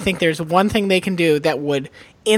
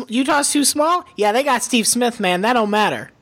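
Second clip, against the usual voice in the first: dismissive comeback; 6 semitones higher than usual. Acted. Acted reply to a doubter.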